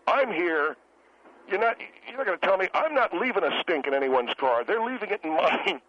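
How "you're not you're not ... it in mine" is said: worked-up, defensive insistence; mildly heated self-defence; emotional protest. Acted. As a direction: protest your innocence with feeling. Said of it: "now you're getting emotional".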